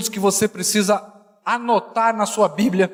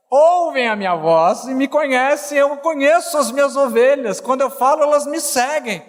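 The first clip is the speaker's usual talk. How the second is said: scripture declamation; 5 semitones higher than usual. Real, not acted.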